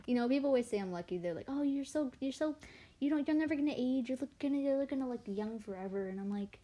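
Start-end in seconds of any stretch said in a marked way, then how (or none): 1.5-6.1 higher, fast gushing imitation; mock gushing admirer. Imitating people telling her she'll never age, gushing. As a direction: parrot the envious compliment, a bit higher.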